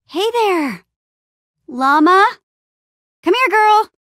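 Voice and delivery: high-pitched pet-calling voice; coaxing an animal. Acted. Adventurer approaching a llama, coaxing.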